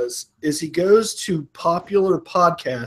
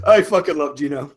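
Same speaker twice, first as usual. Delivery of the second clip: usual speaking voice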